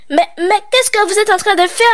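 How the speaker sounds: high, stammering alarm; shocked cry. Acted. Old shopkeeper catching the children, high shocked cry. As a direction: caught them in the act. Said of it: "s'écria monsieur Weiss".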